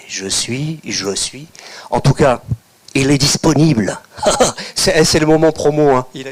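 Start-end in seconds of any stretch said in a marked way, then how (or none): 0.1-1.5 breathy whispered echo of the title; hushed title echo. Acted. Echoes his book title.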